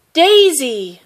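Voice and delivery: loud, high shout of the hen's name. Acted. My My spotting her lost hen, shouting her name. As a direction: call out with sudden hope. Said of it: "My My shouted".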